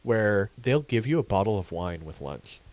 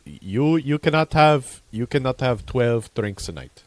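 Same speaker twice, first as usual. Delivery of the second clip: slow, lecturing mock doctor; stern doctor; 4 semitones higher, 6 dB louder, slower than usual. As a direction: lay down the law like a strict doctor. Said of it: "that doctor that was like".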